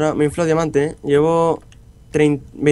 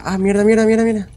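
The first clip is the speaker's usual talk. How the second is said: frustrated cursing; 6 semitones higher, 3 dB louder than usual. Real, not acted. Losing hearts to a mob.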